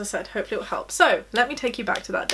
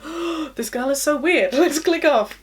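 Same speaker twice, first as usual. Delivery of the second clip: higher, hammed-up weirded-out reaction; mock judgemental viewers; 5 semitones higher, 5 dB louder than usual. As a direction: imitate viewers put off by the weirdness, pitched up. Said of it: "people are gonna be like".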